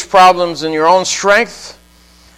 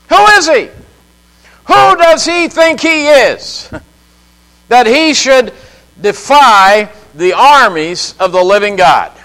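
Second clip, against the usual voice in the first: much higher, a disbelieving challenge; indignant outburst; 3 semitones higher than usual. Real, not acted. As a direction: fling the question out in outrage. Preacher repeats the question indignantly.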